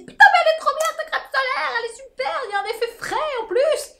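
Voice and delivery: high, fast excited praise; excited friends. Retold or imitated. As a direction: gush like a thrilled friend. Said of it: "ils m'ont tous dit".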